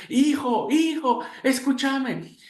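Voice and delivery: father shouting up to his trapped son, frantic; desperate calling. Acted. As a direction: call into the burning building.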